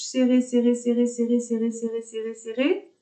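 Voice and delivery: high, insistent chanted repetition; urging tension. Shown as a demonstration. Yoga teacher urging students to scrunch the face, insistent. Urges squeezing the whole face.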